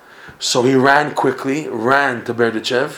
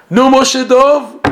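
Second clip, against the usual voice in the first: a loud, slow mocking cry, pitched far higher; jeering shout; 12 semitones higher, 7 dB louder, slower than usual. Prisoners deriding Moshe Dov on Erev Pesach, loud mocking shout. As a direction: drag out the jeer to crush him.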